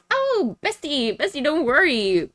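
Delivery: high put-on cooing, easing down; mock reassurance. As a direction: soothe a bestie in a sugary imitation. Voicing Miss Anna reassuring Chowder.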